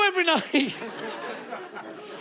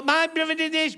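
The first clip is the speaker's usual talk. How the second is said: moaning prince; 2 semitones higher than usual. Retold or imitated. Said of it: "He's like, moaning all".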